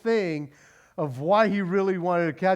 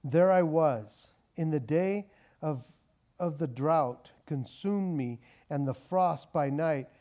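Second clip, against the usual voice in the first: scripture reading; 3 semitones lower than usual. Acted. Preacher reading Genesis to the congregation, measured. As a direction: read the text deliberately.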